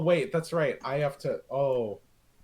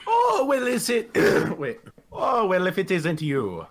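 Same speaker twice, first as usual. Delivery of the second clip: higher, wobbly mix of Australian and Scottish; muddled Australian-Scottish accent; 3 semitones higher, 3 dB louder than usual. Acted. Greeting an old acquaintance, muddled Australian-Scottish accent. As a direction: attempt a Scottish brogue that slips into Australian. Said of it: "I can't tell if he's Australian or Scottish".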